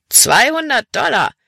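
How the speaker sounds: high, excited cry of "Zweihundert Dollar"; rowdy youth crying out at a big sum; exclaiming. A narrator's reading. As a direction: exclaim it in high-pitched amazement. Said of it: "rief der blonde Schlägertyp aus".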